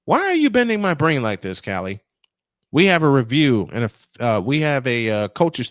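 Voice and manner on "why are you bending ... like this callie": high exasperated cry of confusion; baffled. Real, not acted. To the sideline reporter, baffled and exasperated. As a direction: throw up your hands at the riddle.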